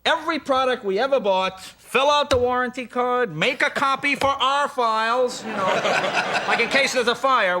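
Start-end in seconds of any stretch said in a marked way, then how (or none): 0.0-5.4 hint of an officious dad, slightly higher; slow, deliberate listing of dad's rules; mock-methodical father laying down procedure; conservative father. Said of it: "my dad was always".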